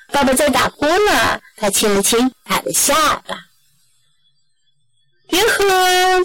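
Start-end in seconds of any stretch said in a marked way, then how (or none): 5.3-6.2 high, sing-out holler; calling out. A narrator's reading. Mom arriving home to the family, high-pitched calling out. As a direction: call through the house in a raised pitch. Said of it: "someone called".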